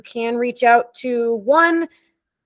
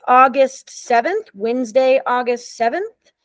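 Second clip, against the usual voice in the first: slow and clear; slower than usual. Real, not acted. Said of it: "Can you repeat that date again".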